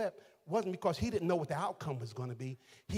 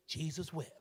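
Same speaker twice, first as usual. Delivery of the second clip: mock recital; 7 dB quieter than usual. Quoting a childhood mealtime verse.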